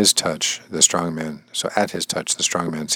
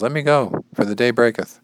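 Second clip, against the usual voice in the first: high, insistent demand to be released; urging; 7 semitones higher, 5 dB louder than usual. Acted. Angel urging Jacob as day breaks, urging. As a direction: raise the pitch and urge release. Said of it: "The angel urges".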